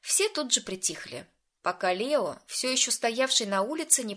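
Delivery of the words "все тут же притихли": ordinary delivery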